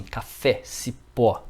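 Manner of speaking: final É in "café" and Ó in "cipó" open and stressed; vogal aberta. Shown as a demonstration. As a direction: say "café", "cipó" with open, punched last vowels. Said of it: "Acento agudo para som aberto". ("café" e "cipó" com a última vogal aberta e tônica)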